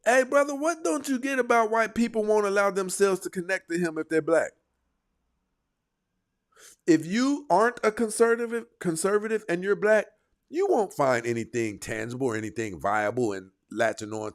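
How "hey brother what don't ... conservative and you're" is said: heated call-out. Real, not acted. Addresses clip subject heatedly.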